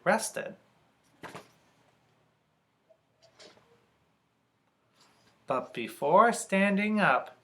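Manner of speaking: measured read-aloud with pauses between phrases; story narration. A narrator's reading. Reader telling the peddler's story to children, measured narration.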